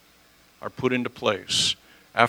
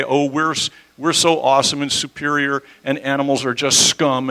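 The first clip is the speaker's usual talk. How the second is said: lightly hammed-up pride, a bit louder; mock boastful; 3 semitones higher, 5 dB louder than usual. Preacher mimics human superiority over animals, mock boastful. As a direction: put on a touch of boasting. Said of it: "I don't say that in a boastful, prideful way".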